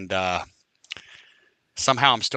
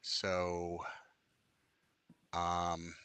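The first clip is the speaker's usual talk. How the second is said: whisper; 6 semitones lower, 10 dB quieter, much slower than usual. Real, not acted. Muttering to himself while searching.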